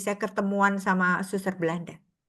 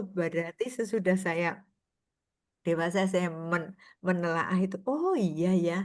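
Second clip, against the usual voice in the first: usual speaking voice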